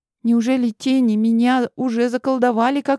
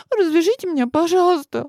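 higher, pleading through mild tears; sobbing plea; 8 semitones higher than usual. A narrator's reading. Bound girl begging her captors, mildly tearful plea. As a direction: beg to be untied, a touch tearful. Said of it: "всхлипывала она".

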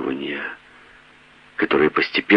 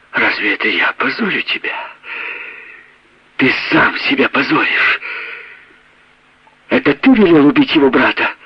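much higher, louder woman's voice; accusing wife; 8 semitones higher, 3 dB louder than usual. A narrator's reading. Wife accuses her husband of ordering a murder. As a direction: fling the accusation at him.

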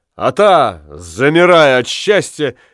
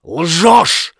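louder, higher angry cry; shouting liar; 5 semitones higher, 4 dB louder than usual. Acted. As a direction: spit it at her, weeping. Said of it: "крикнул Ламме".

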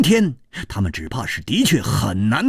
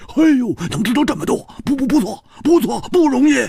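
laughing praise; 12 semitones higher, faster than usual. A narrator's reading. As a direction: tease them with a laugh. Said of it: "笑着说".

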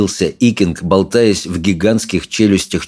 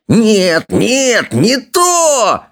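much higher, climbing shriek; squealing villain; 14 semitones higher, much slower than usual. A narrator's reading. Alvin squeals at the dragon, rising higher. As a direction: squeal in frustration. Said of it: "визжал он".

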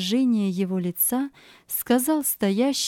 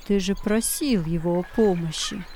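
evil spirit whispering; 3 semitones lower than usual. Acted. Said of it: "Злой дух стал нашептывать ему".

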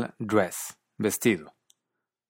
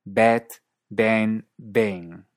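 BAT, BAN, BANG in Australian English, vowel raised toward 'e'; Australian English accent; 3 dB louder, much slower than usual. Shown as a demonstration. Teacher demonstrating an accent to students, Australian BAT, BAN, BANG. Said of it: "Y en cierto inglés australiano".

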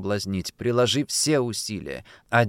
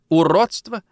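higher, louder shocked question; shocked echo; 8 semitones higher, 6 dB louder than usual. Acted. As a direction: echo the word in disbelief. Mother shocked by daughter's words. (возмущённо-удивлённо)

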